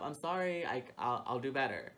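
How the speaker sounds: meek apology. Retold or imitated. Retelling to the manager, a sheepish apology. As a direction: sheepishly promise to do better. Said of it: "That's all I can ever say".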